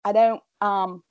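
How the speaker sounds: high-pitched pretend Irish accent; put-on Irish accent. Shown as a demonstration. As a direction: bluff your way through an Irish accent. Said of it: "pretended that I was Irish".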